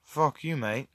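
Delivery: casual British, fairly quiet; British accent. Shown as a demonstration. Asked to talk normally but in British, understated British accent. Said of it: "but in British".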